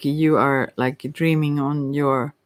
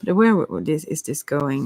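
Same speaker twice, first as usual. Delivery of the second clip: stumbling over the words; stuttering. Real, not acted. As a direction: stammer on the first sounds. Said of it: "Oh, I stutter a lot".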